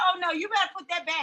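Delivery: put-on quick, no-nonsense mom voice, accent dropped; regular mom voice. Mother refusing son the jug, regular mom voice. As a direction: drop the British and order it back fast. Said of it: "I went back to talking right".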